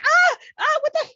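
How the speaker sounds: high, loud startled yelp; startled shriek. Retold or imitated. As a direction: jump at a surprise down the shirt. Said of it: "the girl's like".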